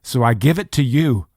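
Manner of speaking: mildly acted plea for rescue; imitated surrendering plea. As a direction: plead as one handing over a burden. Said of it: "in a posture of".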